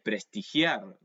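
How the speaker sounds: Spanish pronunciation of prestigiar; Spanish word. Shown as a demonstration. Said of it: "in Spanish we would say".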